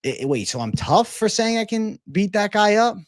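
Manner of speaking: mock a bragging troll; a hint of an indignant braggart; mock tough guy. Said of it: "It would be like".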